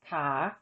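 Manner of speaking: ka with a Thai rising tone; ka, voice rising through the syllable. Shown as a demonstration. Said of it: "is rising, as in".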